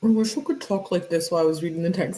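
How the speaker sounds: fast, slurred numb-mouth voice; faking a numb mouth; mock numb-mouth talk. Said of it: "That's not it, my friend".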